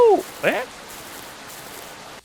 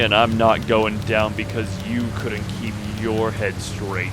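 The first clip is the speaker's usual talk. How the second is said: cold cop; slower than usual. Acted. Cop's final threat.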